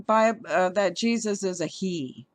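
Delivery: stumbling restart on Bi-; tripping over the words; stuttering. Real, not acted. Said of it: "Sorry if I'm stuttering around".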